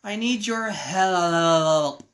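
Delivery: slow, feeble plea down the phone; weak voice. Acted. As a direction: draw it out like a faint, failing caller. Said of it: "a weak voice says when you pick up the receiver".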